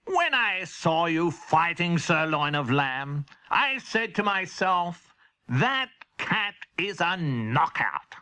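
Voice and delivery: slow, stately king; pompous royal praise; kingly voice. Acted. The king praises Henry's cat, slow and stately.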